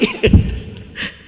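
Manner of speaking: high unvoiced laugh; cracking up at the story; burst of laughter. Real, not acted. Preacher laughs at his congregant's tale.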